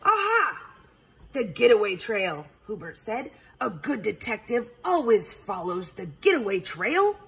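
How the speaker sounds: triumphant accusation; owl detective voice. Acted. Hubert detective voice.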